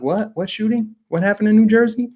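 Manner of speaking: mock surprise. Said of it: "they're like".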